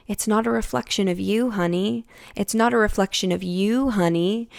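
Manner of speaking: gently lifted, lightly cooing comfort; tender reassurance. Retold or imitated. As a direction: console yourself as you would a dear child. Retelling how she comforted herself.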